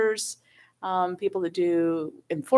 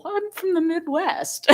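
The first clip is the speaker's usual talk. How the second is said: laughing through a mock correction; 10 semitones higher than usual. Official retelling her reply to Canadians, laughing. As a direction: let the words break into a laugh.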